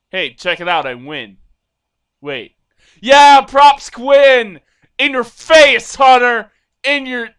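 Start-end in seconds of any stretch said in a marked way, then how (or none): 3.0-7.3 loud, high, slow triumphant taunt; victorious trash talk; gloating yell. Real, not acted. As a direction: rub the win in his face. Gloating at the hunter.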